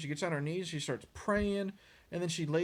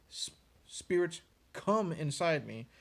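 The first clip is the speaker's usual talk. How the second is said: slow mock incantation, "come" drawn out and leaned on; stress on come; slower than usual. Medium calling spirits into herself, slow emphasis on "come". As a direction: lean slowly on "come", imitating the medium. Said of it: "the emphasis on the word "come".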